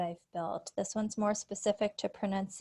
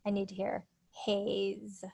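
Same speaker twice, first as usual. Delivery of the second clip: gentle correction. Shown as a demonstration. Teacher correcting student.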